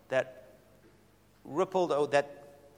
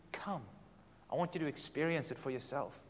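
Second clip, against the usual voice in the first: much softer, intimate invitation; softer voice of God; 4 semitones lower, 14 dB quieter than usual. Acted. Preacher voicing God gently to listeners, much softer. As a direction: drop the voice and invite. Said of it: "God is not just wanting".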